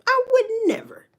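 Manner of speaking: breathy whispered vow; whispered aside. Real, not acted. Vowing never to eat such a sandwich, whispered. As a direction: hush it like a secret oath.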